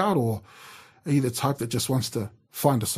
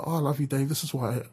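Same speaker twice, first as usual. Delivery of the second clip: tender, softer; 5 dB quieter than usual. Retold or imitated. Wife leans on shoulder, tender.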